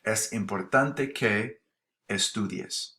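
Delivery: slow and careful, word by word; deliberate classroom demo pace; slow teaching read. Shown as a demonstration. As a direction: spell it out slowly for the class. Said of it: "promoting the use of subjunctive".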